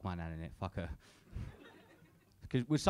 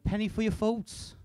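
put-on slow, higher little old lady; 7 semitones higher, slower than usual. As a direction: lightly mimic a lonely old lady. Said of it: "So she went".

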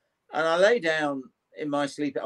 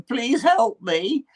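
moaning plea; 9 semitones higher, much slower than usual. Retold or imitated.

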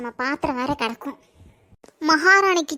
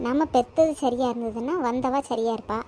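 lower, softer bitter grumbling to herself; resigned lament; 4 semitones lower, 4 dB quieter than usual. Acted. Mother-in-law left alone bemoaning fate, lower and softer. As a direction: sigh over her fate.

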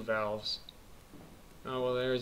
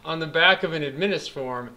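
dramatic reading. Acted. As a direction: read it like a found diary. Reads game note dramatically.

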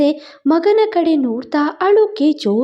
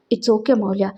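softly soothing her sister, a little lower; like stroking a baby bird's head; tender reassurance; gentle comforting; 6 semitones lower, 4 dB quieter than usual. A narrator's reading. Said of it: "ಗುಬ್ಬಿ ಮರಿಯ ತಲೆ ಸವರುವಂತೆ".

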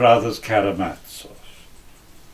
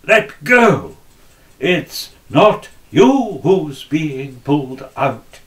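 loud, raised cry of let go; shouting old woman; 4 semitones higher, 4 dB louder, slower than usual. Acted. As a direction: shove them off with your voice. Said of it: "She began to kick and shout".

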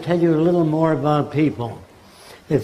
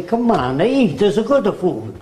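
put-on Italian accent; 4 semitones higher than usual. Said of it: "If you're brought up in Italy".

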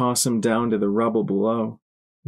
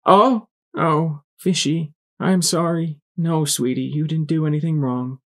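high, tender motherly voice; pitched-up mama comforting her filly; mother reassuring child; 7 semitones higher than usual. A narrator's reading. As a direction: soothe a little one through tears.

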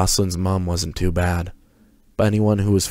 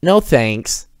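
bored brush-off; 6 semitones higher, 4 dB louder than usual. A narrator's reading. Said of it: "was all Tammy said".

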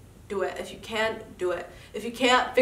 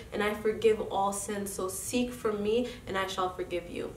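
soft, solemn scripture reading; reverent recitation; 3 dB quieter than usual. Acted. Recites a sacred hadith.

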